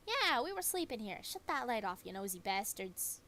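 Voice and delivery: a second bat piling on, furious; angry bat. Acted.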